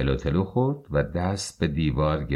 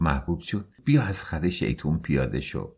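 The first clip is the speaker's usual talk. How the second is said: calm and kind; 3 semitones lower than usual. Acted. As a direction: soothe her like a mother. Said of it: "با لحنی آرام و مهربان". (mother calms the angry daughter-in-law, gently)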